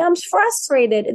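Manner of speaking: put-on slow, high-pitched little-kid voice; signing baby. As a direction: voice a cute baby naming its feeling. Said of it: "like, they're signing".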